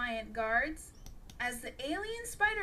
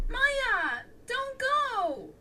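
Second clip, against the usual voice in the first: high, louder plea; pleading; 12 semitones higher, 6 dB louder, much slower than usual. A narrator's reading. Klaus begging Maya not to walk away, pleading. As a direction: beg her to stay. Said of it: "pleading for her forgiveness".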